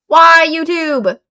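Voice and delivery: slow, stretched-out exasperated whine; drawn-out whine. Real, not acted. Streamer whining at YouTube about dropped frames, drawn out. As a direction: drag the words out in despair. Same complaint repeated, drawn out.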